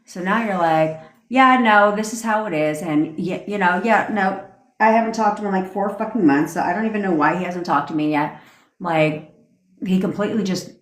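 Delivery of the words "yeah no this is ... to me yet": with tonality. Shown as a demonstration. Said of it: "You say it in, with tonality".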